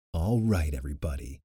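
announcing. Acted. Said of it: "Luke announced".

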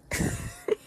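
soft laugh dipping oddly deep; real, self-amused deep laugh; laugh that goes deep. Real, not acted. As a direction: let the laugh slip into a deep chuckle. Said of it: "why my laugh went that deep".

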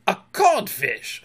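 drawn-out, stupefied repetition; blank echo. A narrator's reading. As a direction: repeat it in dazed disbelief. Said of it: "Hook echoed blankly".

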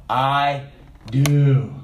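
slow, drawn-out low vow; bride's vow. Retold or imitated. Prospective wife answering at her wedding, lightly voiced and drawn out. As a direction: lightly imitate a bride, each word stretched. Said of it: "you know what the wife says".

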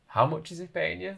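high-pitched imitation of a parent; high, curious mock-parent question; parents' voice. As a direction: mimic a parent asking, pitched well up. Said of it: "my parents and they were like".

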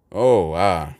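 loud gruff half-laugh. A narrator's reading. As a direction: bark it out as a rough chuckle. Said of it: "with something like a gruff laugh".

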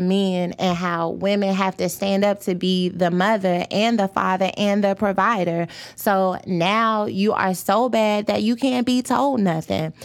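a light, half-hearted singer impression; lightly imitating a soulful singer, barely changed from her own voice; mock celebrity voice, only a hint of it; attempted Fantasia voice. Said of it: "that was my attempt at a Fantasia voice".

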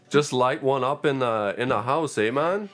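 put-on high, loud Canadian accent; over-the-top Canadian guy. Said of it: "He sounds like that".

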